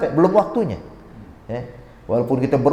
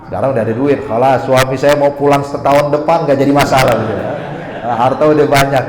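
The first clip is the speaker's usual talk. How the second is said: louder, gleeful boast of an imitated housewife; pleased; 4 dB louder than usual. Housewife now rich, unbothered by husband's absence, loudly pleased. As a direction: play her mildly elated, brushing worries away. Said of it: "sekarang tertawa".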